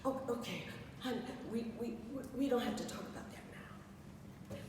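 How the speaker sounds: mother calming her breathless daughter; soft soothing. Retold or imitated. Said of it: "she just said".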